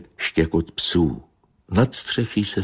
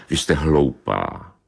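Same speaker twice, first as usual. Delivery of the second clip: angry tomcat; 2 semitones lower than usual. Acted. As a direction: snap at the silly she-cat, slowly. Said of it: "řekl zlostně". (zlostně, pomalu a hlouběji)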